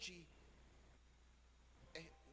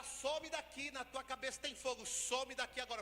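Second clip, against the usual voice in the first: loud, higher shouted order to leave; angry command; 5 semitones higher, 5 dB louder than usual. Retold or imitated. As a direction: chase him out now. Healer orders child out.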